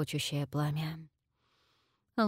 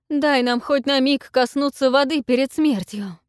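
much higher, loud wail; wailing cry; 7 semitones higher, 8 dB louder than usual. A narrator's reading. Queen begs for the sea, wailing cry. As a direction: wail it to the sky.

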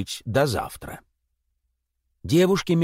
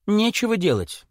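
light babble; 5 semitones higher than usual. Acted. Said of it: "лепетала Оксана".

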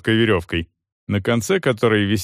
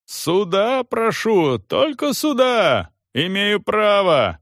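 much higher, slow insistent cry; yelling demand; 11 semitones higher, slower than usual. A narrator's reading. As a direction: demand a trial at the top of the voice. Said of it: "продолжал орать".

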